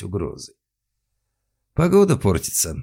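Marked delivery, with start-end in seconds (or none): 1.7-2.8 friendly. A narrator's reading. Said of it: "неожиданно дружелюбно добавил он".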